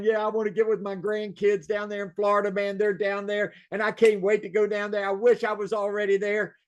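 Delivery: happy anticipation, voiced through a smile; smiling client. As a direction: imitate a client who can't wait. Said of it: "you can feel them smiling".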